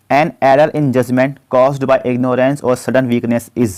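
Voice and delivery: slow, deliberate dictation of the question; slow question read-out. Acted. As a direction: read it out word by word for students. Reads quiz question slowly. (धीमी आवाज़ में प्रश्न पढ़ना)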